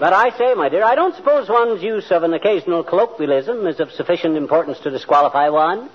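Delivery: hammed-up posh British toff accent; mock English gent. Husband playing the English gent for his wife. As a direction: put on a fake English gentleman accent. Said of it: "yammering like a stock company Englishman".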